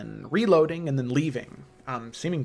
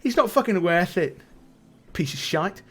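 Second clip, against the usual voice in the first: higher, louder, dismissive sailor woman; sailor woman restraining; 6 semitones higher, 4 dB louder than usual. Acted. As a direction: pull him back and scoff at the goblin. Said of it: "the woman grabs his shoulder and says".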